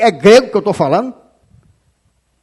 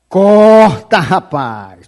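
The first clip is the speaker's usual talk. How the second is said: shouted command; 4 semitones lower, much slower than usual. Real, not acted. Preacher ordering a man to cut ties, shouting. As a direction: bark it out like an urgent order. Preacher repeats warning twice.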